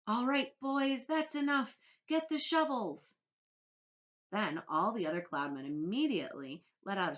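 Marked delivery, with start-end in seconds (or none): 0.1-3.2 high, loud, slow commanding call; shouting. Acted. Cloud man shouts orders to his crew loud and high. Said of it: "heard him shouting".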